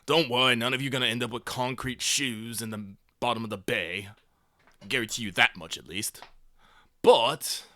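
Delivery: lightly gravelled gang boss voice; a touch of gravel, menacing the crowd; gravelly villain. Acted. Gang leader lays out terms to freed workers, lightly gravelly. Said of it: "I just try to keep my voice kinda gravelly".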